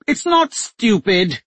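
shouted. A narrator's reading. Duchess shouting at her captor as the knife presses. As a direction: shout back as the blade presses. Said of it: "Jenny shouted".

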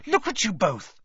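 high alarmed cry; shrieking. Acted. Hermione shrieking at the tangled boys, high alarmed cry. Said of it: "shrieked Hermione".

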